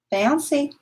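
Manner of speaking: "Bouncy" lifted high like calling a pet; sing-song call. Real, not acted.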